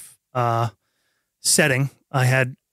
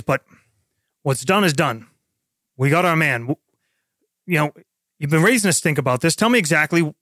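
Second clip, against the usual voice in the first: lieutenant pressing; faster than usual. Acted. Lieutenant confronts sergeant.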